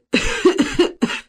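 резкий кашель, подавившись; закашляться, поперхнувшись водкой; поперхнулся, кашель. A narrator's reading. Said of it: "Зуев поперхнулся". (Зуев давится за столом, закашлялся)

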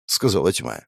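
ordinary delivery, nothing marked

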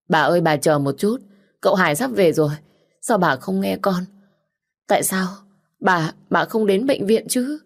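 whimpering maid. Acted. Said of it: "tiếng chị giúp việc mếu máo".

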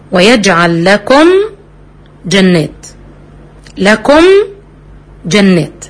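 slow, measured tajweed recitation; Quran recitation. Shown as a demonstration. Teacher reciting a Quran example for her students, slow and measured. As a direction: recite it with the ghunna held. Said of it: "الميم جت في لكم".

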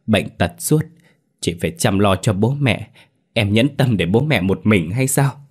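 a hint of a terrified sister-in-law begging; frantic pleading. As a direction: beg for your life, fast and pressing. Lan begs ghost for mercy.

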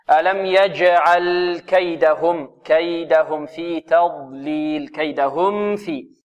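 slow, drawn-out tajweed recitation; measured teaching recitation; Quran recitation. Shown as a demonstration. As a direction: recite the verse deliberately for students to copy. Teacher recites the verse as model.

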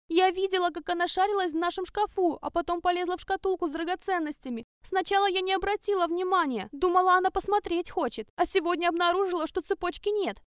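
high, loud whining lie; wife lies to her husband, high whining; whining accusation. Acted. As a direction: plead your false case, pitched high.

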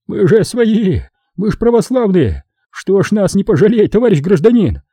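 high, pleading traitor on his knees; desperate hysterical pleading. A narrator's reading. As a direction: beg for your life, nearly choking on panic. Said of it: "Отчаянно забормотал он, захлёбываясь истерикой".

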